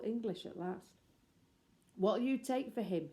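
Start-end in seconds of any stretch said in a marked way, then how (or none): 2.0-3.1 excited. A narrator's reading. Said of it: "she said excitedly".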